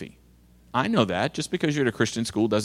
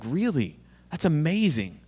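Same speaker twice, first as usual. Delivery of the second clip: dry mock amazement, a touch softer; sarcastic; 4 dB quieter than usual. Youth pastor mocking the boy's excuse, dry sarcasm. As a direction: say it with sarcastic disbelief. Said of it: "And I was like".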